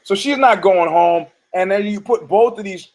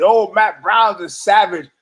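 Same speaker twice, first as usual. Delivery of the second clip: imitating Joe Rogan; 4 semitones higher than usual. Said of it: "Joe Rogan always does this".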